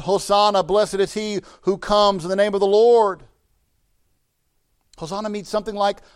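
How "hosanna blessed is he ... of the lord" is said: loud acclaim, stretched out at the end; crying out. Acted. Crowd hailing the coming king, crying out loudly. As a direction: cry it out to the whole crowd. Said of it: "And they cry out".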